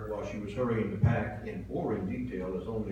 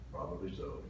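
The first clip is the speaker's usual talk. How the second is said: curt reply; 4 semitones lower, 6 dB quieter than usual. Retold or imitated. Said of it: "Stone-faced, I replied".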